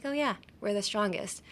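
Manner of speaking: casual, unemphasised throwaway line; matter-of-fact and easy; everyday, offhand. Shown as a demonstration. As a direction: say it like it's nothing special. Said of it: "like, an everyday thing".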